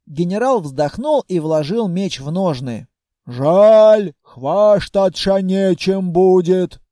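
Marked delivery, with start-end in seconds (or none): 3.3-6.8 slow, dim-witted orc voice; a slow, confused orc warrior; puzzled orc. A narrator's reading. Orc general asking the hero, slow puzzled voice.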